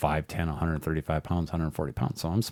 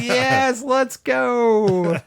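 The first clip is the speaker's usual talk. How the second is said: eager yes; 6 dB louder, much slower than usual. Retold or imitated. Eager answer to make-out offer.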